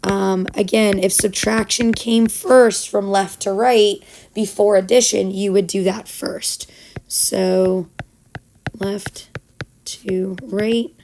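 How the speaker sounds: raspy, worn-out teacher voice; hoarse voice. Real, not acted. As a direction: voice nearly gone, speaking through it. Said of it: "even though I sound all hoarse and sick".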